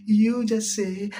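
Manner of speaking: slow, drawn-out officiant cue; mock pastor prompt. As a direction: drawl it like a pastor leading vows. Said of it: "The osofo be can be a".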